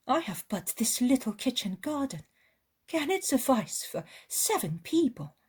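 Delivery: an eager hostess welcoming a guest; high, loud woman's voice; eager village woman. Acted. Woman complains of poverty.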